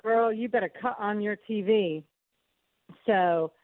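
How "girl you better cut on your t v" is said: North Carolina phrasing. Retold or imitated. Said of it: "Silk always used to say".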